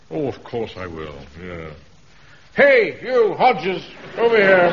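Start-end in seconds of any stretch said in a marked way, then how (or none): 2.5-4.7 loud, high call across the road; shouting over to a man down the road. Acted. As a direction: hail him from a distance.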